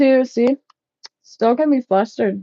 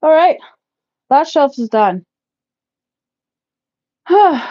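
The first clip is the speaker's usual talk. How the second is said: excited exclaim; 6 semitones higher, 4 dB louder than usual. Real, not acted. Exclaiming while working.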